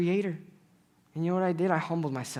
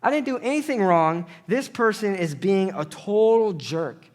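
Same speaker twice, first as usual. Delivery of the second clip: indignant outburst; 5 semitones higher, faster than usual. Retold or imitated. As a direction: whine it out, higher and fast. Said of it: "Whoa, whoa, whoa, Zach".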